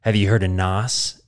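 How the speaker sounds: a hint of a gravelly action-movie mentor; Mark's voice. Mark introduces nos to Vin Diesel, low mock mentor voice. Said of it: "this is Mark now".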